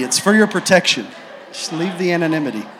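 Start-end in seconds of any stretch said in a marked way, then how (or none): 1.5-2.7 quicker, laughing it off; laughing repeat. Shown as a demonstration. Preacher repeating the joke to the crowd, laughing. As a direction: say it again through a laugh.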